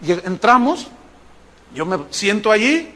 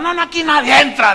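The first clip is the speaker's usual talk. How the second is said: high put-on voice of refusal; insistent usher; 7 semitones higher, 3 dB louder than usual. Usher tells the crowd nobody enters, high and insistent. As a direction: imitate a doorman overruling everyone.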